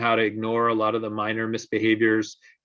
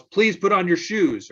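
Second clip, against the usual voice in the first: higher, louder, slow exasperated yell; mock yell; 8 semitones higher, 4 dB louder than usual. Parent yelling the same request at an ignoring child, loud. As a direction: raise the voice at the child. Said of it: "Parent yells".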